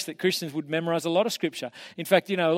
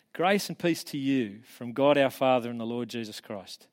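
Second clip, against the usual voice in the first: reciting verses from memory; a lightly formal scripture recitation; recited scripture. Shown as a demonstration. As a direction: recite it like a careful memory drill. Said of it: "give you a few verses".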